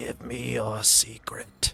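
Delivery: sinister, creepy, rasping, gravelly hushed whisper. Telling of a creepy voice in your head, he acts out its low gravelly whisper. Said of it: "low, gravelly, and it says".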